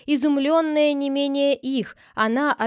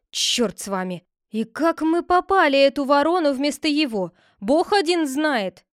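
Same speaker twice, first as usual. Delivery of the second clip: higher, louder agitated excuse; flustered protest; 5 semitones higher, 5 dB louder than usual. Acted. The constables protest to the head, flustered. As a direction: blurt out the excuse.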